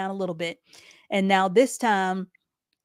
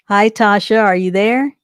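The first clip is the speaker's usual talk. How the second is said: calling out; 2 semitones higher, 8 dB louder than usual. Real, not acted. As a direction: call out to see if they can hear you. Greeting a caller who just joined.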